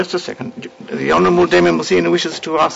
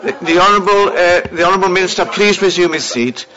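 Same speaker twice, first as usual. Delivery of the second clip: raised, firm order; stern call to order; 3 semitones higher than usual. Real, not acted. Speaker calls minister to order.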